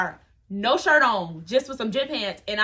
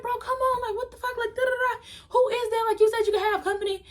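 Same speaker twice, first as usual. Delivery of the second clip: mad; 11 semitones higher than usual. Retold or imitated. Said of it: "so I'm mad at him".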